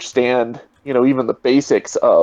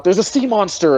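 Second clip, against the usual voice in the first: mild mock yell, higher pitched; retold yell; 7 semitones higher than usual. Crewman warning the others in the boat, mock yell. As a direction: imitate a yelled alarm without really raising volume. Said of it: "one of them yells out".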